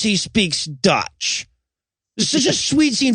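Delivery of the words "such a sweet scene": gushing, sugary sweet; mock-sentimental gush. Shown as a demonstration. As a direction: coo it like a sappy movie fan. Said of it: "making me do the same".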